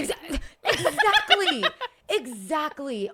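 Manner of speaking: delighted laugh as you agree; laughing agreement. Real, not acted. Guest laughing as the host names the perfect example, laughing.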